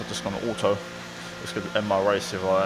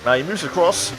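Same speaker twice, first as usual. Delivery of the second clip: motorsport commentator. A narrator's reading. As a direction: lively race commentary voiceover. Race narration over gameplay.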